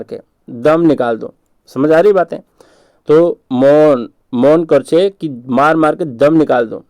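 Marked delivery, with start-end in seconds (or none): 3.1-6.8 Bengali accent. Shown as a demonstration. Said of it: "Bengali tone में".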